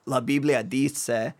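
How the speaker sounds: Spanish words in a vaguely European accent; amateur Spanish pronunciation; attempted Spanish accent. Real, not acted. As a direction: try a Spanish accent, not quite native. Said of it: "European accent when I say these Spanish words".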